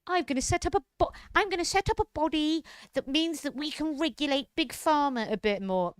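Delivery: mocking politician. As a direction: parody him as a smug reformer. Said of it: "that socialism is like".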